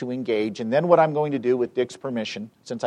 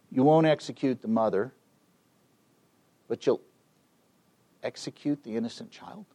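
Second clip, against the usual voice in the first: very gently. Retold or imitated. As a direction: put it to her gently, with measured pauses. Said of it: "I said to her very gently".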